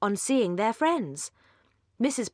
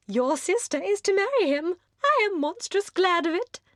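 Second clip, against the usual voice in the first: very high, louder, breathless society chatter; giddy young lady; 8 semitones higher, 3 dB louder than usual. Acted. Mrs Palmer gushes at the Dashwood sisters, very high and giddy. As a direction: gush like a merry, empty-headed hostess.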